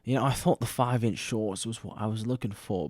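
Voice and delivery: attempted British accent, softly put on. Shown as a demonstration. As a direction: try the line as a Brit. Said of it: "say it in a British accent".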